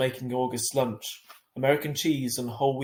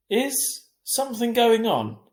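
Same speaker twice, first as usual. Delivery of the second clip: puzzled question; 11 semitones higher, 6 dB louder, slower than usual. A narrator's reading. Mum asks suspiciously.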